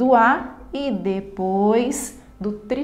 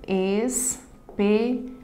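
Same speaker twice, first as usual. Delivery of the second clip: "Espelho" in three slow beats: es, pe, lho; syllable by syllable; much slower than usual. Shown as a demonstration. Teacher dividing a word for students, syllable by syllable. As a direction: pause after each syllable of "Espelho". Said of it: "Na divisão silábica".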